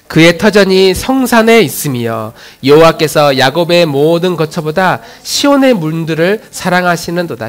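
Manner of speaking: firm, projected congregational reading; scripture reading. Real, not acted. Pastor leading the congregation through a psalm, firm recitation. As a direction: read the psalm out for all to follow.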